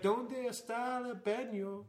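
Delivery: slow, high, laughing mock Spanish; mock Spanish phrase. Mocking the song's clumsy Spanish, slow and high. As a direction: drag out the tourist Spanish, laughing.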